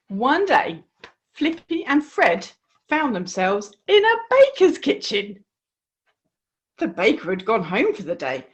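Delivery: put-on lively storybook voice for young listeners; reading to children. A narrator's reading. A host reading the frog story to children, lively. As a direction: tell the frog tale with bright expression.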